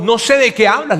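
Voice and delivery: denial. Retold or imitated. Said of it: "Pedro lo negó frente a todos".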